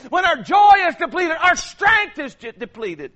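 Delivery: loud, high preacher's cry, building; full-voiced pulpit shout; fiery preaching. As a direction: preach it hard to the congregation. Pastor preaching at full force.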